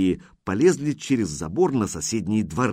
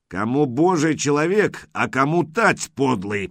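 angry growl, raised voice; 4 semitones higher than usual. Acted. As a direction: snarl it at the rival. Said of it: "прорычал Пежич".

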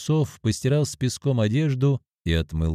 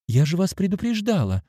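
offended; 9 semitones higher than usual. Acted. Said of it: "обиженно говорит девушка".

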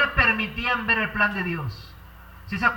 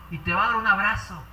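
normal talking voice

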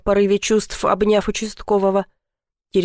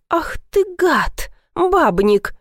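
sudden high jealous cry; indignant outburst; 8 semitones higher, much slower than usual. Acted. Jealous heroine exploding at Andrey in indignation. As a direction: burst out at the cheating man.

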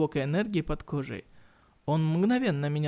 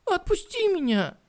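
high furious shout; angry shout; 4 dB louder than usual. Acted. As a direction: yell it at him in fury. Captured woman shouts at him.

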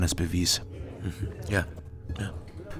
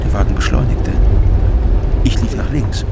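louder, urgent narration as the car speeds up; tense telling; 2 semitones higher, 8 dB louder than usual. Acted. Narrator recalling the car rushing at him, loud and urgent. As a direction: build the panic as the car comes at him.

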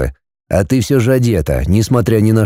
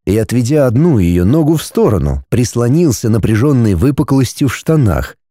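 usual speaking voice

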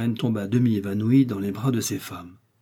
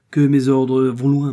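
slow, heavy, louder declaration; firm insistence; 3 semitones higher, 8 dB louder than usual. Acted. Chancellor presses the queen with his authority, slow and loud. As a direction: weigh each word like an unbending order.

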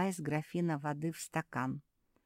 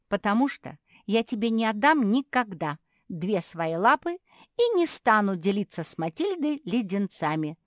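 higher, louder puppy voice; stubborn explaining; 6 semitones higher, 9 dB louder than usual. Acted. Puppy explaining why she won't share, louder. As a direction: explain it like it's obvious. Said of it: "растолковала Мафия".

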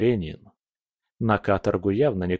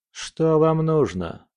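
relaxed mumble; 7 semitones higher, slower than usual. A narrator's reading. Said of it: "расслабленно промямлил Фёдор".

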